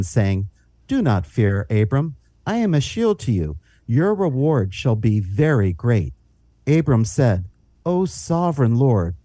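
calm, reverent Bible reading; scripture reading. Acted. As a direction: read the passage solemnly. Reads scripture aloud.

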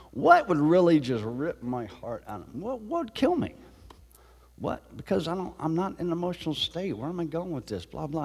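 fretting to yourself, up high; anxious inner voice. Retold or imitated. Inner thoughts while walking.

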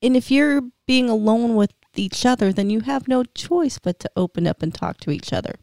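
gentle, sincere and caring. Real, not acted. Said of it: "You sound so caring".

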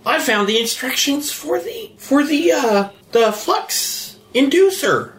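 high-pitched, eager announcement of a discovery; excited revelation. Acted. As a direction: pitch it way up, thrilled by the find. Breathless news of a way out.

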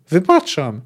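mild emphatic cry; calling out. Acted. Poet hastily forgives the executioner, calling out. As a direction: call out the pardon. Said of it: "zawołał Jaskier".

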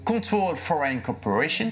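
French speaker putting on English pronunciation; showy attempt at an English accent. Real, not acted. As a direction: say it with your best English accent. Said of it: "j'ai un super accent anglais".

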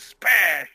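short mouthed smash; playful smash effect; glass smash noise. Retold or imitated. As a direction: spit out a crash sound. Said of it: "They were like".

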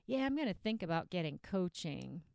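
low, noncommittal mumbled resolve; lightly voiced procrastinating dieter. Dieter putting off getting coaching, lightly acted procrastination. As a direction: make a half-hearted promise to consider it. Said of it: "but you keep thinking about it".

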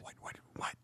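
hushed repeated whisper. Pretend. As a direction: whisper it under your breath. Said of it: "Why is he whispering?".

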